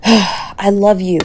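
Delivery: slow, tender "I love you". Acted. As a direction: take time over each word.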